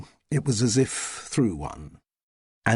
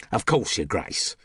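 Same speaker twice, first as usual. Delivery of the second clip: cockney. Acted. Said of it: "in her customary cockney".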